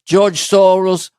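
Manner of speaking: slow, weighty mobster delivery; a touch of Godfather gravitas; Luca Brasi take. Acted. Second take for the producer, slow mobster voice. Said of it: "Use either take".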